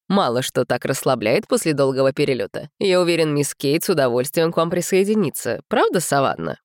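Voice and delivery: lightly voiced confident man; deep male voice. Narrator voices William. (уверенный мужской голос)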